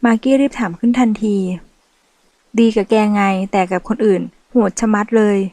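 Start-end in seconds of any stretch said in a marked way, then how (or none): 2.6-5.4 sarcastic. Acted. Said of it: "พูดด้วยน้ำเสียงเหน็บแนม".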